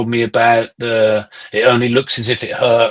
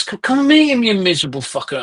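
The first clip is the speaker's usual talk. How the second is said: manager's call; 9 semitones higher than usual. Retold or imitated. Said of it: "my manager, goes".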